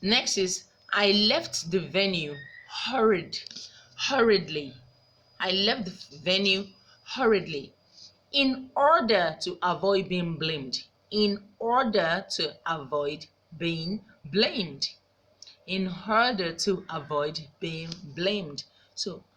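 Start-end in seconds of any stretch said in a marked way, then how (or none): 0.9-4.7 breathy whisper of an example sentence; whispered read. Shown as a demonstration. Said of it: "Hurriedly here is an adverb that we're emphasizing". 8.3-18.6 slow, measured repeats with weight on "order"; slow repeated drill. Shown as a demonstration. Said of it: "that we're emphasizing".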